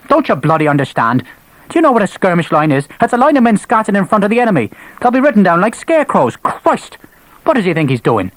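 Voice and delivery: exasperated, rising Irish anger; angry outburst. Acted. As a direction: lose your temper at him. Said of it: "Hogan's patience snapped".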